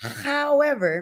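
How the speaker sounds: high-pitched put-on cartoon voice. Commenting on how an argument escalated, speaker says however in Stewie voice. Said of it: "in my Stewie voice".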